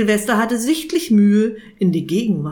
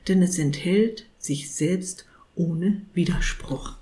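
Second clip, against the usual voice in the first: put-on gentle old saint musing at length; saint lecturing. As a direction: lose yourself in lofty thoughts. Saint's philosophical speech.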